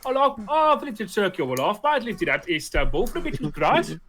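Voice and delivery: broad Brummie voice; Brummy accent. Retold or imitated. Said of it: "he spoke English in a thick Brummy accent".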